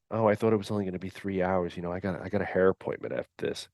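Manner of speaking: whiny candidate. Retold or imitated. Mocking a whiny hire candidate.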